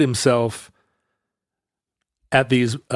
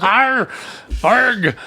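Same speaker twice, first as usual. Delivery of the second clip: mock northern accent; 9 semitones higher than usual. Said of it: "Keep going north".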